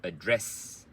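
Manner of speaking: quick light opening, strong DRESS in address; stress and rhythm demo. Shown as a demonstration. Teacher sums up stress plus rhythm, address on DRESS. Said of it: "the stress plus the rhythm".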